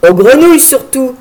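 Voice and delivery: teasing line with a touch of laughter; mock her while still laughing; mild laughing tease. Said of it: "riant toujours".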